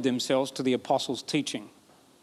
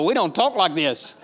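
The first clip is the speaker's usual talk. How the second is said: laughing; 2 semitones higher, 3 dB louder than usual. Real, not acted. Joking about King James English.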